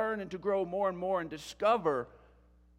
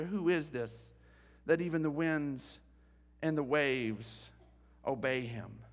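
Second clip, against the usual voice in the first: hushed awe; 7 semitones lower, 6 dB quieter than usual. Acted. Disciples terrified after the storm.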